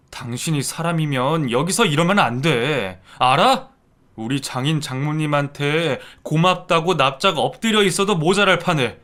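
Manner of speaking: loud, stern berating; angry rebuke. Acted. Son-in-law angrily rebuking his stepmother. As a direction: put her in her place.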